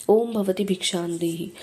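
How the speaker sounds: slow, measured call for alms. A narrator's reading. Dnyandev calls from the courtyard for alms, slow ritual call. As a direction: draw out the ritual begging phrase, without raising the voice. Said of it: "ज्ञानदेवाने पुकार केला".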